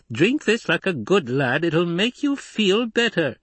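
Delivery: high-pitched, patient coaxing; reasonable. A narrator's reading. Doctor urging a drink on the drunk soldier, reasonably. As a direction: coax a drunk gently into drinking. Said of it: "He spoke reasonably".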